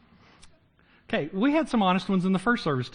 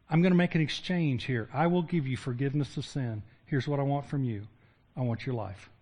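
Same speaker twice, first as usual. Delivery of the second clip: softer and lower, gentle pleading invitation; tender offer; 4 semitones lower, 5 dB quieter than usual. Acted. Jesus speaking to the listener, softer tender invitation. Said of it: "he looks at us and he says".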